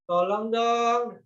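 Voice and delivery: slow, gentle "please"; polite request. Shown as a demonstration. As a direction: ask nicely, drawn out. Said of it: "harus mengucapkan kata tolong".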